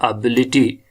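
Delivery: एबिलिटी with stress on बि; second-syllable stress. Shown as a demonstration. Teacher gives the answer, stressing बि in एबिलिटी. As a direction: lean on बि in एबिलिटी. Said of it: "यहाँ इसको accent लगेगा".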